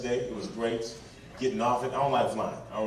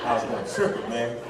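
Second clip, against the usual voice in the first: whispered confession; 5 semitones lower, 5 dB quieter than usual. Real, not acted. Confessing scheme.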